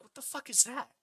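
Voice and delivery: whispering to a friend during the movie; whispered. Retold or imitated. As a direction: whisper it to the friend in the next seat. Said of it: "I literally whispered to my friend".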